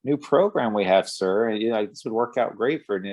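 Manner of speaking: lightly voiced salesman, quick and eager; a hint of a teller upselling a customer; pushy bank salesman. Bank clerk pitches a new program, a touch salesy. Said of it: "and he's like".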